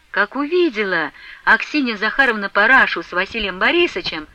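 usual speaking voice

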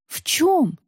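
genuinely baffled, wide-eyed; surprised. A narrator's reading. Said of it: "удивлённо округлила глаза Варвара". (удивлённо, высоко)

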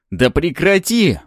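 high, loud, slow cry; exclaimed protest. A narrator's reading. Second cop begging hero to stop, exclaiming. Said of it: "воскликнул второй коп".

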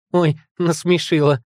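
high, slow amused exclamation; amused, laughing. A narrator's reading. Ёлка mocking the monsters in her thoughts, amused. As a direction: crow with mock hilarity, no real laugh. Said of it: "Смех ёлки ворвался в мысли ураганом".

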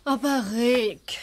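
urgent pleading whisper; a wife's hushed plea to drop the matter. Acted. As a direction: whisper it so the others can't hear. Wife pleads with husband aside.

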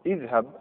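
اذهب as "idhhab", "i" first; kasra on hamza. Shown as a demonstration. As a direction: give اذهب a clear initial "i". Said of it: "اكسر اذا كانت مفتوحه". (اذهب بكسر الهمزة)

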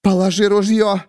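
high defiant no; Miriam refusing. A narrator's reading. Miriam refusing the narrator, high defiant. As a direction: refuse flatly. Miriam demands, gun raised.

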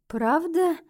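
small, high-pitched question; timid squeak. A narrator's reading. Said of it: "робко пискнула я".

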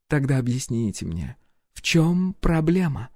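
composed royal inquiry; empress voice. A narrator's reading. Empress questions the hero's plans, lightly voiced.

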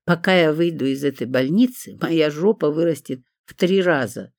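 plain reading voice

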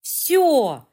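high, loud tipsy «Всё!»; wide-eyed exclaim. A narrator's reading. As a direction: blurt it out with wide eyes. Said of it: "вытаращив глаза, заявила Лиля". (пьяный восторженный выкрик)

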